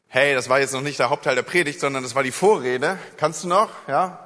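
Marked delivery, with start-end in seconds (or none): none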